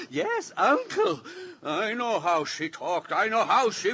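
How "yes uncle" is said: slow, mincing imitation of a young girl; mocking the niece. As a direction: mimic her sweet talk with contempt. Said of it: "walk around like this and talk like this".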